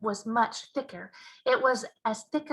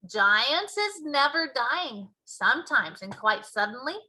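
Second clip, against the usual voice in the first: BFG giant voice; 2 semitones higher than usual. Acted. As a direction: boom out the giant's mangled grammar.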